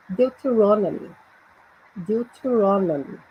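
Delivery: Deuteronomy with the stress on RON; teacher's model of Deuteronomy, stressing RON; stressed syllable. Shown as a demonstration. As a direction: say Deuteronomy carefully, leaning on the RON. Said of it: "Eu até sublinhei aí a sílaba crônica".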